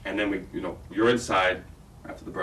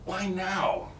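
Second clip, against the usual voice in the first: upset shout; 8 semitones higher, 4 dB louder than usual. Shown as a demonstration. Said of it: "you're screaming, you're upset".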